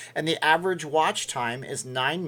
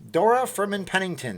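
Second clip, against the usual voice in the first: grand announcer voice; 5 semitones higher than usual. Pretend. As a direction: announce it like royalty. Repeats the name grandly.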